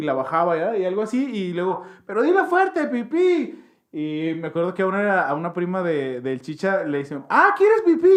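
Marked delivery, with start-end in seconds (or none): 2.1-3.6 mock loud call. Calling the dove loudly by name. 7.3-8.1 high, loud mocking question; teasing relative. Relative teasing a little girl at the party, high loud mockery.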